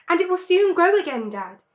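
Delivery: hopeful little cub; small fox child, lightly voiced. A narrator's reading. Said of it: "said one of the small foxes".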